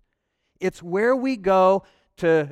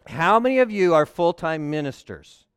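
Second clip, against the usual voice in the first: louder insistent ask; louder repeat; 7 dB louder than usual. Shown as a demonstration. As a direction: push the question to the room. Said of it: "let me ask this one more time".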